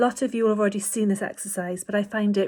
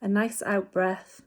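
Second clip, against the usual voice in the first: slow demo breath; slower than usual. Shown as a demonstration. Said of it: "So have a little go at that".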